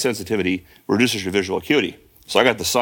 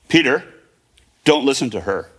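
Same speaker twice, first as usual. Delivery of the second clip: retold emphatic yell; 2 semitones higher than usual. Mother calling to her fallen son from upstairs, mildly yelled and emphatic. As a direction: give the order emphatically, phrase by separate phrase. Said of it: "she yells just as loud, but more emphatically".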